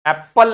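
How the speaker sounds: "एप्पल" with the प sounded twice, ऐप-पल; wrong doubled consonant. Shown as a demonstration. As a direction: split "एप्पल" into ऐप and पल. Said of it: "नहीं पढ़ते हैं".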